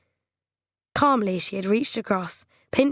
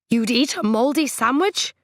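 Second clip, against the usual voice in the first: aghast question; 5 semitones higher, 4 dB louder than usual. A narrator's reading. Trent aghast at mouldy bread.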